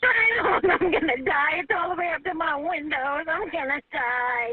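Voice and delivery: nervous laugh, then slow panicked words; real terror rising in the voice. Real, not acted. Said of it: "I'm scared".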